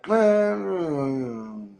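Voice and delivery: long, high hum sliding down; drawn-out hum of reservation, starting high and falling; doubtful hum. Retold or imitated. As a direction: skeptical drawn-out "mmm". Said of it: "I was kinda like".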